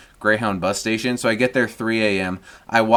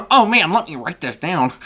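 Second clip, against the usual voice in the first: mock eager; 4 semitones higher than usual. Mock eager reply, laughing.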